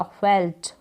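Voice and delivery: फेल्ट as one syllable, half ल; correct pronunciation. Shown as a demonstration. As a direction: join ल and ट tightly in फेल्ट. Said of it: "इसका pronunciation निकलेगा".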